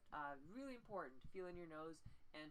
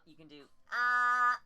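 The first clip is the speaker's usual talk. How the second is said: "uh" pinched high and much louder; pinched nasal voice; 5 semitones higher, 17 dB louder than usual. Shown as a demonstration. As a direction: squeeze "uh" up into the nose.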